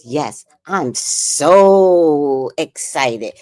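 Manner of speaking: slow, drawn-out mock of fake enthusiasm; mocking phony excitement. Grandson mocking grandma's fake excitement, slow and drawn out. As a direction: parody grandma's phony thrill. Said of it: "that sounded real phony".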